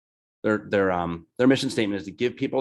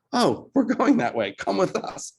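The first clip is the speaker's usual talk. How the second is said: much higher, slow, kindly woman; hammed-up helpful woman, pitched up; helpful stranger; 11 semitones higher, slower than usual. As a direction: lightly play the friendly local leading the way. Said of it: "And she's like".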